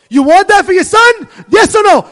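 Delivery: high, loud demanding question; retold loud challenge. Rabbi retells challenging the mother, loud and demanding. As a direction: press her hard for an answer. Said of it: "I told her".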